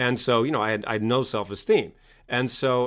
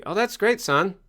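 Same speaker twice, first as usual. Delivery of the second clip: mock cheerful approval; 2 semitones higher than usual. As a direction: play the clueless parent, all sunny. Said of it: "would you say".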